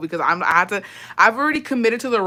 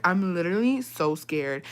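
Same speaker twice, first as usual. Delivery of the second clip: soft, mock-frightened voice; playing the victim; 6 dB quieter than usual. Playing victim to her boyfriend, softly mock scared. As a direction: plead fear in a small voice. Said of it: "I played the victim so fucking bad".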